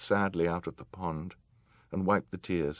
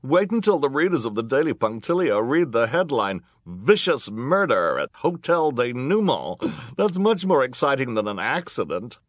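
high, loud, thrilled gossip; squealing; 8 semitones higher, 8 dB louder than usual. A narrator's reading. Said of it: "squealed another voice".

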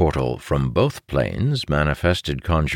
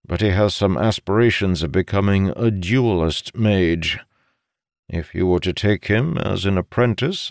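persuading father; 5 semitones higher than usual. Acted. Voices the father persuading his son.

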